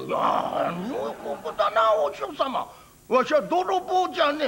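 lightly voiced old countryman; a simple old farmer answering the priest; old villager voice.

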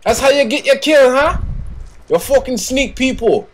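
high, annoyed scolding; a little mad. Real, not acted. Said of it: "You sound a little mad".

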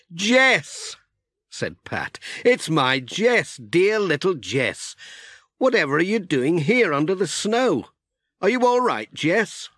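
delighted surprise. Acted. Pat overjoyed at finding his cat Jess. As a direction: greet the lost cat with delight.

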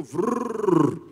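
mock motor noise for skimming; rattling it off. Preacher mocks rushing through verses, motor buzz. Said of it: "we just go".

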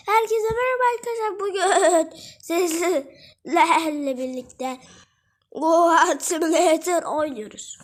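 bleating goat voice. Pretend. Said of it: "Keçi gibi konuştum orada yani".

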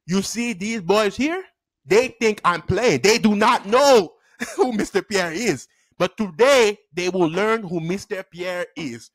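slow, deliberate teacher's warning; measured words, laying down the law; stern teacher. Retold or imitated. Teacher warning the class he is no pushover, stern.

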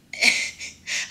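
short light chuckle; a brief laugh before the joke. Shown as a demonstration. Assistant asked for laughter, short chuckle. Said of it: "une phrase en riant".

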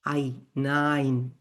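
আই alone, then নাইন drawn out; German pronunciation demo. Shown as a demonstration. Teacher breaks down German no, নাইন said slowly. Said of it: "জার্মানে বলেছে নাইন".

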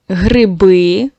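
гриби with the last syllable stressed and a rising tune. Shown as a demonstration. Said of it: "падає наголос на «и»". (наголос на останньому складі: гриби)

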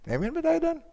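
high, rising call to the crowd; preacher's call for amen; rousing amen call. Real, not acted. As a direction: lift them into an amen.

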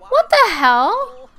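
high, loud, scandalized outcry; high-pitched indignant shock; shocked outburst. Real, not acted. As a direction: burst out in loud disbelief. Outraged at game character's rudeness.

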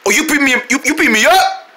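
high, incredulous squawked question; indignant protest. Acted. Victim to the friend hitting him, high indignant protest.

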